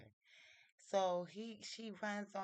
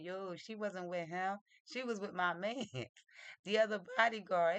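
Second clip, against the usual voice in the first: retold amused reveal, louder toward the end; mock laughing disbelief, raised voice; 3 semitones higher, 5 dB louder than usual. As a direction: break into a chuckle while quoting him. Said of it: "he started laughing".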